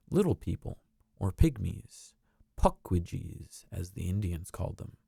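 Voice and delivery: gentle storybook reading voice; storybook narrator. A narrator's reading. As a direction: read it like a bedtime story. Reads a storybook aloud.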